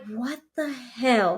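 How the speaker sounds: slow, drawn-out stunned question; mock-appalled, dragging the words; retold disbelief. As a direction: stretch each word in retold shock. Retold reaction to shocking news.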